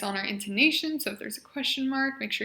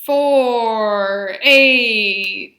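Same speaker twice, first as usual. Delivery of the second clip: above conversational level; 12 dB louder, much slower than usual. Shown as a demonstration. Therapist modeling counting for the patient, loud and connected. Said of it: "a little bit above conversational level".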